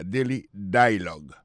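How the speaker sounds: "dialogue" stressed on its opening DI; stress on first syllable. Shown as a demonstration. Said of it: "plus sur première syllabe là". (aksan sou premye silab "dialogue")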